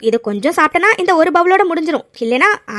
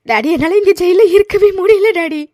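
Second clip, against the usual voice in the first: tearful plea. Acted. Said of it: "நீ அழாதம்மா".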